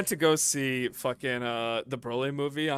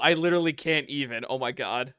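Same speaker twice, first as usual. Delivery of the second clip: put-on quick breathless valley-girl gush; imitating a teen girl's gasp; mock valley girl. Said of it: "quote for quote".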